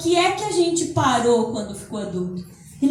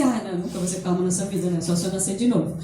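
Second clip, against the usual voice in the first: defeatist whine; 8 semitones lower, 4 dB quieter, faster than usual. Pretend. Mocking a defeatist inner voice.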